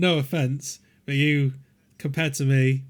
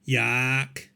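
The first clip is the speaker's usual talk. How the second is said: Yorkshire accent impression. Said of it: "do an impression of me".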